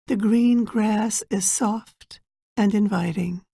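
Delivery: measured meditation guide, long pauses between phrases; guided meditation. Acted. Guide preparing listeners for an inner journey, guided meditation. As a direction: guide them gently inward, phrase by unhurried phrase.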